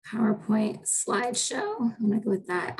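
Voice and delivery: ordinary delivery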